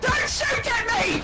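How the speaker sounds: slow, high pleading yell; drawn-out panicked shout. Real, not acted. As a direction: stretch the plea out. Repeats plea in shootout.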